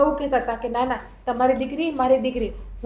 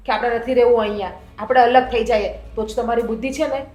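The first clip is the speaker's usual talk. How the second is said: defiant threat; 3 dB louder than usual. Acted. Daughter-in-law threatening to leave.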